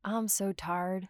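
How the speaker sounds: drawn-out Georgia Southern accent, slow. Shown as a demonstration. Showing her co-host her tired Georgia drawl: slow Southern accent. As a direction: let the Georgia accent go broad and relaxed. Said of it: "to, like".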